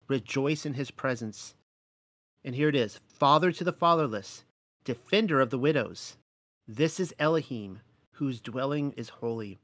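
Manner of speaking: measured, reverent reading of verses; scripture reading. Acted. Preacher reading psalms aloud to the congregation, reverent and measured. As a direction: read it out like a preacher at the pulpit. Reads scripture in sermon style.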